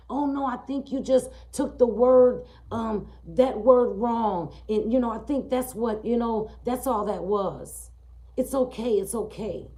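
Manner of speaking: high, loud, smoothing-over school principal; dismissive principal. Retold or imitated. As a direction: wave the complaint away.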